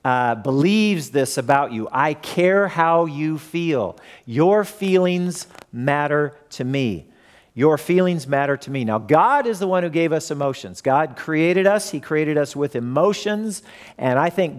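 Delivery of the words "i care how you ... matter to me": slow, sincere and reassuring; caring words. Shown as a demonstration. Pastor modelling caring words for the listeners, slow and sincere. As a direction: say it slowly like you truly mean it. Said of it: "where you say".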